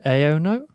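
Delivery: "Aiono" offered as a question, rising at the end; unsure pronunciation. Real, not acted. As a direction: try "Aiono" tentatively, tune lifting as if checking. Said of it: "wanna say that that's how you pronounce it".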